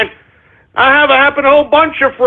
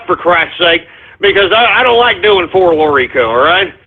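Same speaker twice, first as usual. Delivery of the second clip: out of breath; 5 semitones lower than usual. Real, not acted. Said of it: "I'm a little out of breath".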